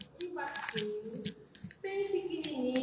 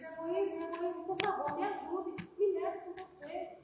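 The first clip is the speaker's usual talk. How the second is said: pleading cry; 5 semitones higher than usual. Acted. Amor pleading for help drowning.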